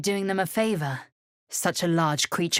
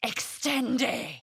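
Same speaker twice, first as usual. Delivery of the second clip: high incantation cry; bright arcane call; spellcasting; 7 semitones higher, 4 dB quieter than usual. Acted. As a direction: snap out the spell.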